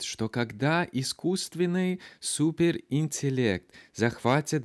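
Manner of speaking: slow, careful Russian read with a noticeable American accent. Shown as a demonstration. Host demos his own rusty Russian, slow with American accent. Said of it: "it would sound a little bit like this".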